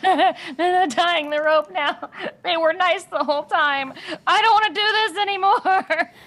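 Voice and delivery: frantic, high, loud, panicked pleading character voice. Voicing a character as the rope is being tied: panicking character voice. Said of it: "she's just kind of like panicking".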